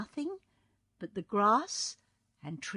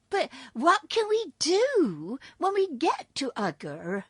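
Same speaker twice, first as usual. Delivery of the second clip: higher, anxious question; 10 semitones higher, 7 dB louder, slower than usual. A narrator's reading. Cookie Cook asking the wizard, anxious and higher. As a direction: ask nervously. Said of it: "inquired the Cookie Cook anxiously".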